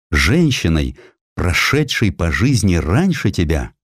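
ordinary delivery

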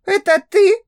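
high, mocking female voice; a bold smirk in a girl's voice; cheeky female voice. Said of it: "усмехнулась дерзко". (дерзкая усмешка высоким женским голосом)

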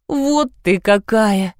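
slow, tearful whine; whiny drawl. A narrator's reading. Liza whines at the narrator over the silent toy, slow and tearful. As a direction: whine it out, hurt. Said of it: "плаксиво протянула она".

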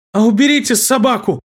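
high cracking frightened plea; terrified pleading. Acted. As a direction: beg with a breaking voice. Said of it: "срывающимся голосом попросил пацан".

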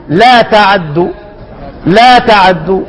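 لا تعدوا with the fatha on the ain half-voiced; snatch the vowel of تعدوا lightly, without strain; ikhtilas demo. Shown as a demonstration. Teacher demonstrating Qalun's reading without affectation. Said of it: "بس بدون تكلف".

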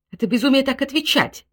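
high, loud angry retort; shouting wife. A narrator's reading. Wife shouts back at the general over his refusal, angry shout. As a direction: snap back at husband furiously. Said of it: "крикнула генеральша".

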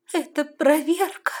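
high, loud and slow, near tears; mother sobbing a warning to her daughter. A narrator's reading. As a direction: choke it out through a sob. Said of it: "всхлипнула она".

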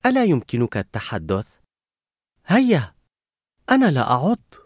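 gentle coaxing, lifting in pitch at the end; gentler. A narrator's reading. Girl to silent Carl who finds her scary, gently coaxing. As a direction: coax a shy child to speak. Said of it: "ثم قالت بلطف أكثر".

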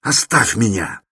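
a tormented man begging to be left alone; anguished cry. A narrator's reading. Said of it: "Вскричал он вдруг в судорожной тоске".

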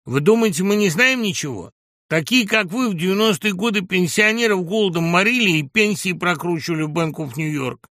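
loud, high accusatory harangue; insolent yelling. A narrator's reading. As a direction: hurl accusations brazenly at an opponent. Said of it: "нагло орал Гусев". (наглый обвиняющий крик)

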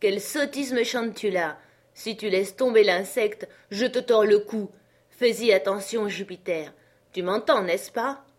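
mildly voiced cross master; scolding master. Master warns Jupiter not to drop the beetle, scolding.

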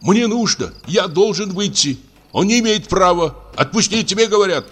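high, urgent pleading; desperate demand. A narrator's reading. Doctor demanding the guard release him, desperate. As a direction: insist on being let out.

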